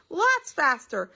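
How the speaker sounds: slow, loud and high insistence; urgent plea. A narrator's reading. Mother pushing daddy to drive, slow and loud. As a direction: stretch it out, demanding. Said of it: "cried Mommy".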